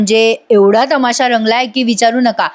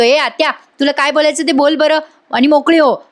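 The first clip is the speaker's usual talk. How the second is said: higher-pitched, mildly annoyed retelling; irritated Parth; 5 semitones higher than usual. Retold or imitated. Parth tells his aunt to speak up, mildly irritated. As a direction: act out impatience lightly. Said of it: "आता पार्थ पण चिडतो आणि म्हणतो".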